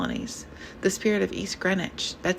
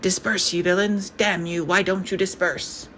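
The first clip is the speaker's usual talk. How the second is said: angry voice. Acted. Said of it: "An angry voice".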